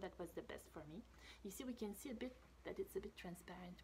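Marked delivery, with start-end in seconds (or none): 1.4-3.8 soft explaining whisper; hushed showing-the-picture voice. Real, not acted. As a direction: whisper the detail. Hushed aside about drawing.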